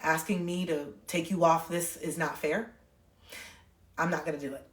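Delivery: steady, restrained refusal; calm boundary-setting. Retold or imitated. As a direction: hold the line quietly with an angry parent. Calmly setting boundary with angry dad.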